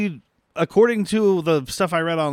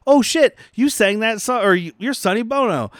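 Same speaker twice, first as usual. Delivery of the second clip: excited fan; 6 semitones higher than usual. Retold or imitated. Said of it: "Sinbad is basically just like".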